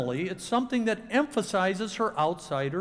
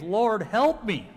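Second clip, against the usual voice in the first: begging; 4 semitones higher, 4 dB louder, slower than usual. Acted.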